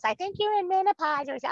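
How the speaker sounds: quick high imitation of mom; lightly imitating mom, fast and high; mom's voice. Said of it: "she goes".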